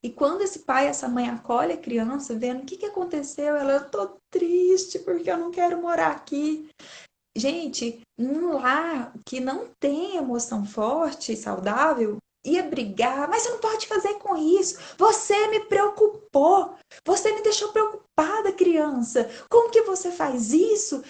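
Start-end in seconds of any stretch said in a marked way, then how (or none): 3.7-6.7 put-on sad child voice. Child voiced in retold film scene. 13.3-21.0 scolding parent. Retold or imitated. Scolding parent voiced in retold scene.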